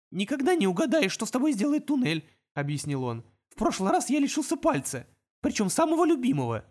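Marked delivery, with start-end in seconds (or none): 0.1-2.3 high little imp voice, chattering. Acted. Imp warning the wizards about tunnels, high and chirpy. 3.5-6.6 high little imp voice, chattering. Acted. Imp warning the wizards about tunnels, high and chirpy.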